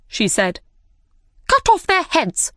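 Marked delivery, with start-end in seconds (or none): 1.5-2.5 cold royal sentence. Acted. The Queen's sentence.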